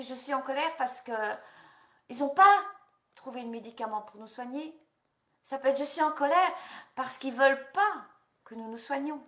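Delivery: rising outrage that bursts out; indignant anger. Shown as a demonstration. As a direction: voice cracking up high in protest. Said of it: "Parlez de votre colère à vous".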